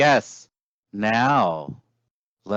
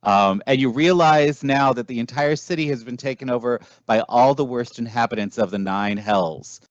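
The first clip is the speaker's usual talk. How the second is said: measured storyteller scene setting; game master narration. Acted. Game master describing a devil-infested city to players, storyteller narration.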